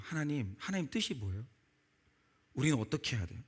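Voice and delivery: a mother's hushed prayer. Retold or imitated. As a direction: pray it quietly, almost pleading. Mother praying to God.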